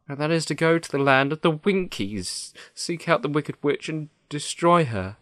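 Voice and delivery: high-pitched lion voice, resolute. Acted. The Lion tells Dorothy the only plan, resolute. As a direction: lay out the plan in a lifted character voice.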